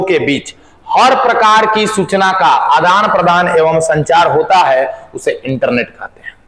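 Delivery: slow, measured dictating voice; deliberate phrases with stretched-out words; dictation. Real, not acted. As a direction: dictate word by word for note-taking. Dictates a definition to class.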